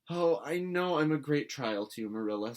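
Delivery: put-on a contrite girl to her guardian; repentant. A narrator's reading. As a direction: apologise earnestly. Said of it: "said Anne repentantly".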